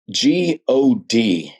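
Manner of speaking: letters spelled out one by one, very slow; spelled out slowly. Retold or imitated. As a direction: spell it out slowly, unable to say the word. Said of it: "I couldn't even say God".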